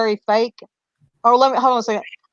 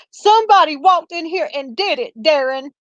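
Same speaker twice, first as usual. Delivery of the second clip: sarcastic; 4 semitones higher than usual. Retold or imitated. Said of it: "kinda sarcastically".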